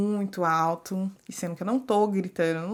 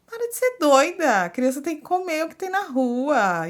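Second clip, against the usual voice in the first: louder, higher mock reproach; lightly voiced judgmental stranger; mock scolding; 7 semitones higher, 4 dB louder than usual. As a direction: imitate a bossy onlooker, lightly. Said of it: "as pessoas vão te olhar e falar".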